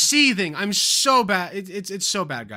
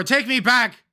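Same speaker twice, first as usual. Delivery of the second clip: mock pleading; 3 semitones higher, 4 dB louder, slower than usual. Melodramatic plea to old self.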